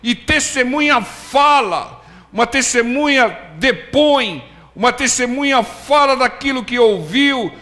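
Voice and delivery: a pastor driving the point home to the church; fiery preaching. Acted. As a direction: preach it with fire. Preaching at full force.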